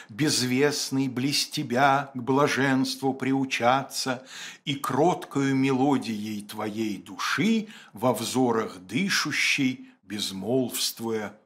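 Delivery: медленно, нараспев, с затуханием в конце; читай как лирическое признание, тихо угасая; чтение стихов. Acted. Читает стихи вслух. (декламация стихов)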